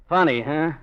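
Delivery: loud, high, pointed charge; angry accusation. Acted. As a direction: pin the blame on her, hard. Gangster accuses her loudly.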